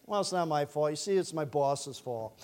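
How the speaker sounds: low, soft self-justifying; mock excuse-making. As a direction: explain it away quietly, sidestepping blame. Acted church member making excuses.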